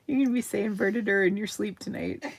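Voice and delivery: fast, laughing tease; teasing the viewers through laughter. Real, not acted. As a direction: say it through giggles.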